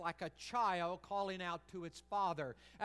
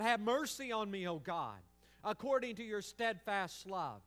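pleading cry; 3 semitones higher, 5 dB louder than usual. Acted. Preacher voices psalmist's plea.

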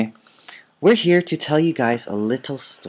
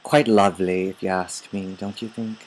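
put-on English accent; 4 semitones lower than usual. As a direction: muse in a pretend English accent. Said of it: "an English accent".

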